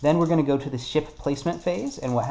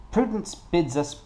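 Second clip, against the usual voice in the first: slow, higher attempt at French accent; French-accented narrator, drawn out and higher; 6 semitones higher, slower than usual. Shown as a demonstration. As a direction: try out a tentative French accent. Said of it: "maybe I should try in a French accent".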